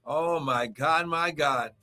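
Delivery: rhythmic, rising preacher's cry over music; a pastor's charged morning prayer; fervent preaching prayer. Acted. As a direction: pray over them with full fire.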